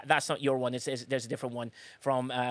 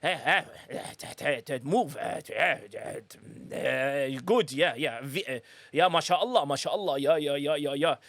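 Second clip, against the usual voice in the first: mock Arab accent; 3 semitones lower than usual. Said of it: "You sound like a Spanish Arab".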